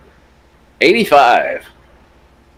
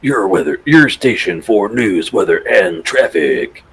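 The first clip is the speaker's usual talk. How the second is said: parody news anchor; 2 semitones lower than usual. Acted. Mock station jingle.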